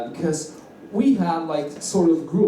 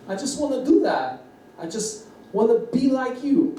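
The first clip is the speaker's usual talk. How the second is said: high-pitched, eager fan wishing aloud; pleading enthusiasm, high voice; gushing admiration; 9 semitones higher than usual. Retold or imitated. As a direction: gush it, pitched well above normal. Acted gushing wish to be like someone.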